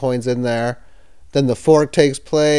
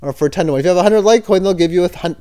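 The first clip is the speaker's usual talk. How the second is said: normal talking voice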